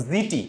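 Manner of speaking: "জিটি" with a buzzing z in place of s; teacher's memory-trick "জিটি", said zee-tee; z-sound memory pronunciation. Shown as a demonstration. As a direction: start "জিটি" on a voiced z. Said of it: "জিটি উচ্চারণ করতাম".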